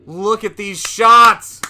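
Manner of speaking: awed exclamation. Real, not acted. Marvelling at the film's cinematography.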